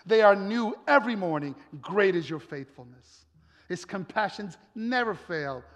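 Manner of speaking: insistent, repeated proclamation; emphatic scripture preaching. Acted. Preacher declaring God's faithfulness to the congregation, emphatic. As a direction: drive each phrase home.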